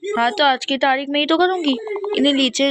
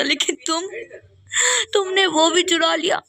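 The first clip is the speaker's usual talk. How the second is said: tearful, voice breaking on the blame; crying accusation; 3 semitones higher than usual. Acted. Mother sobbing as she accuses the kids of theft. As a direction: sob out the betrayal.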